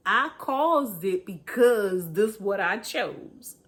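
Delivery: mock confession. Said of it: "be honest with ourselves and say".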